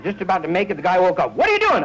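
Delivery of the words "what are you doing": high, sudden falsetto; startled roommate. Retold or imitated. Psychotic roommate catching him at the sink, high and startled.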